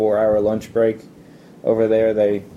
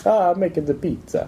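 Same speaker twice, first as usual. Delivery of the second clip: mock Italian chef, pitched much higher; stereotypical Italian voice; 8 semitones higher than usual. Italian student mocking the pizza-maker stereotype in a high mock Italian accent. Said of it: "That's usually the stereotypical".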